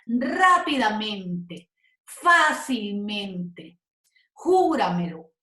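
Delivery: RÁ-pidamente, FÁ-cilmente, JÚ-ramelo, first syllable stretched; slow, hit the first syllable of rápidamente, fácilmente, Júramelo; stress on the first syllable. Shown as a demonstration. Teacher giving examples of accented words, early syllable punched. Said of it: "el acento va aquí y siempre también se acentúa".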